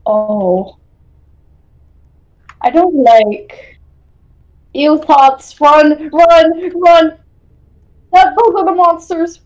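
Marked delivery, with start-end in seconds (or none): 5.6-9.4 urgent shouting. Real, not acted. Fleeing monsters in horror game.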